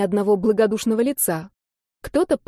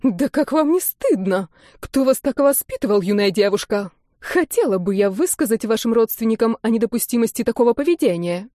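indignant scolding. Acted. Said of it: "возмутилась Августа".

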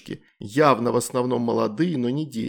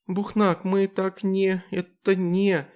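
put-on higher, halting child babble; babbling girl; 7 semitones higher, much slower than usual. A narrator's reading. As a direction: stammer like a confused girl. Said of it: "залепетала она". (растерянный детский лепет, выше)

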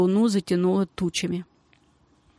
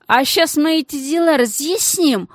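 menacing rasp; 7 semitones higher, 4 dB louder than usual. Acted. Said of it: "угрожающе просипел Мас".

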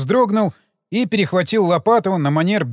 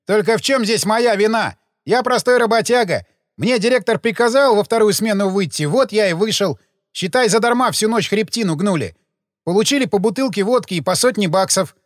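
a gravedigger voiced higher, aggrieved and defensive; sullen gravedigger; 4 semitones higher than usual. Gravedigger protesting his innocence to detectives, aggrieved. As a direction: play the put-upon worker justifying himself.

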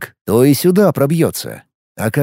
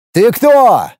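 higher, louder demand; loud question; 8 semitones higher, 5 dB louder than usual. Acted. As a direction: call out sharply into the void. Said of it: "громко спросил Алекс". (громкий оклик)

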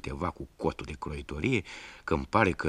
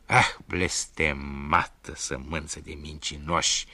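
slow furious cry; angry outburst; slower than usual. Acted. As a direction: curse them slowly in rage. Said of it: "țipă croitorul".

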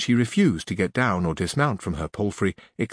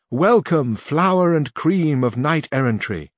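a higher, louder, slow welcoming call; crying out in welcome; 6 semitones higher, 3 dB louder, slower than usual. Acted. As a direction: hail the knight from the galleries.

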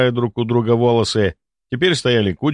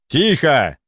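barked; 6 semitones higher than usual. A narrator's reading. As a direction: snap "Тихо!" out to silence the room. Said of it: "Я рявкнул так".

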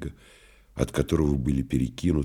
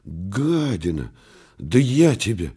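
angry outburst; 4 semitones higher than usual. Acted. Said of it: "вскричал во сне Турбин".

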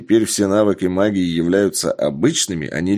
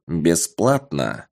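Бесплатно slow and weighty, set apart; stress on Бесплатно; 3 semitones lower, slower than usual. A narrator's reading. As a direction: lean hard on Бесплатно, drawn out. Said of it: "Феникс сделал акцент на последнем слове".

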